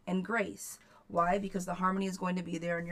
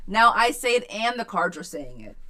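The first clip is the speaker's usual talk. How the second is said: excited; 3 semitones higher, 11 dB louder than usual. Real, not acted. Excited about the reading.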